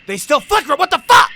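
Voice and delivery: high, loud outburst rising at the end; exasperated yell. Real, not acted. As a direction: yell it in disbelief. Exasperated that lights still flicker.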